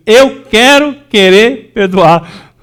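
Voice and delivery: "eu quero querer perdoar" said slowly, stress on "quero"; slow emphatic phrase. Shown as a demonstration. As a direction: lean on "quero", stretch each word. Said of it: "fala assim". (frase lenta, com ênfase em "quero")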